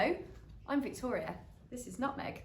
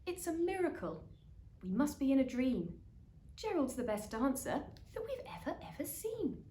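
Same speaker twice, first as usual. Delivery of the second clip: amazed cheering; 6 semitones higher than usual. Acted. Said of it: "They shouted".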